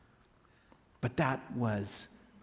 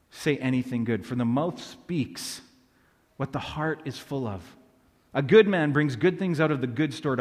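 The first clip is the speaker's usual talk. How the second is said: preacher reading scripture, rising louder in the middle; 3 dB louder than usual. Acted. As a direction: read Jesus' words out to the congregation with conviction. Reads Jesus' words as scripture.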